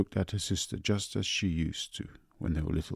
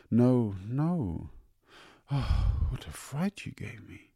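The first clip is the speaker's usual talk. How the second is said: relieved; 6 semitones higher, slower than usual. Acted. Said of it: "Missus Sheridan sighed with relief".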